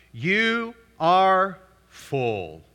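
drawn out very slowly, mocking; sarcastic. Paul mocking the proud Corinthians, slow sarcasm. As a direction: stretch it out with sarcasm. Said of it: "Y'all hear the sarcasm".

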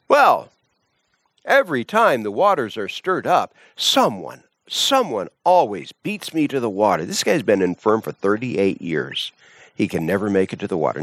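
a lightly voiced sick man making excuses; whiny excuse. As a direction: complain like a man who always misses out.

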